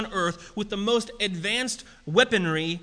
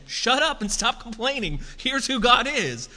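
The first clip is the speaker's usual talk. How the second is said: sharp, loud, higher rebuke; angry rebuke; 6 semitones higher, 4 dB louder than usual. Retold or imitated. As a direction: snap at them to shut up. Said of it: "This is an angry response".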